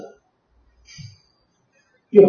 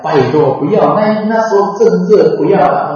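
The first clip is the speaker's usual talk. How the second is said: pleading; 6 semitones higher, 8 dB louder than usual. Retold or imitated. People beg him not to die.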